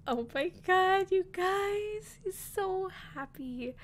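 choked up over the groom's happy face; nearly tearful awe. Retold or imitated. Telling viewers about her brother's face, near tears. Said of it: "Oh, I'm gonna start crying now".

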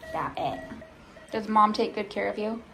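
usual speaking voice

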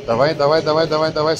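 loud, urgent gym coach pushing; coach shouting encouragement. Real, not acted. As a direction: drive her through the last reps. Coach pushing a lifter through reps.

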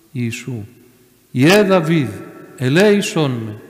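imitated plea, rising to a loud call; faithful cry. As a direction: call out for mercy with unshakable faith. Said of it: "άρχισε να φωνάζει με πίστη ακλόνητη".

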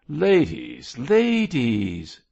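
loud, high protest; remonstrating. A narrator's reading. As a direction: call out to break up a quarrel. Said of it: "remonstrated Cargrim".

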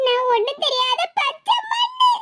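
slow, drawn-out whine of innocence; poor-little-me wail, dragged out; whiny innocence. Acted. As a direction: whine it slowly, stretching the last word. Daughter whines that she is innocent.

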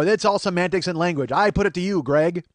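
lightly hammed-up lawyer's plea; mock courtroom speech. Debater addresses Greg in court, lightly mocked oratory. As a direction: put it to the jury, half in jest.

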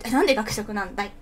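loud incredulous protest; mock indignant. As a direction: demand an explanation in mock outrage. Complaining about downgrade to cafeteria. (大げさに憤慨して問い詰める)

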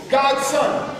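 "God's Son" called up high and loud. Shown as a demonstration. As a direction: call "God's Son" to the sky. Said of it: "I come to the sky and say".

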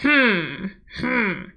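mock-grumpy hmm; a short, playful grumble; grumbling. Leader getting children at home to grumble, grumbling hmm. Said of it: "Let me hear you grumbling".

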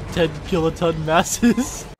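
slow, loud teasing jab; slow mocking emphasis. Mocking her bulk.

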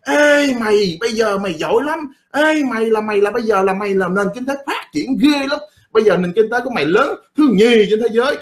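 high, hammed-up flattery of a dupe; mock flattering Westerner. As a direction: Western powers sweet-talking China, mock flattery. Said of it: "nó mới vẽ ra cho thằng nụ hay lúa đó coi".

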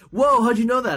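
high, amazed mock reaction; high-pitched impressed "whoa"; retold astonishment. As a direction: imitate someone blown away by a guess.

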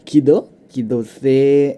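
mock-Japanese accent, slow and drawn out; Japanese pronunciation. Shown as a demonstration. Narrator showing how Japanese would say the kid's name, playful Japanese accent. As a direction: put on a Japanese accent, stretching the last syllable. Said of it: "เอ่อ ญี่ปุ่นต้องออกเสียงว่า".

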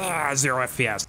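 imitated sneeze running into words; mock sneeze. Imitating the lagging game, as a mock sneeze.

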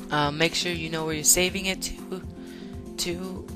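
a bit squeaky today. Real, not acted. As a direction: voice going squeaky. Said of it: "my voice is really squeaky today".

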